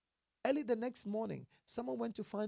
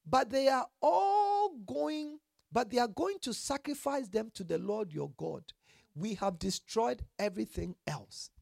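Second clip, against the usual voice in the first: excuse-making Saul; 4 semitones higher than usual. Retold or imitated. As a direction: play Saul wheedling his way out. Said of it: "Saul admitted".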